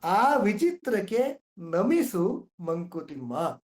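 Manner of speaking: very slow recital of the refrain; slow poetic reading; verse recitation. Shown as a demonstration. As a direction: draw out the closing line. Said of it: "D V G ಅವ್ರು ಏನ್ ಹೇಳ್ತಾರೆ ಗೊತ್ತಾ".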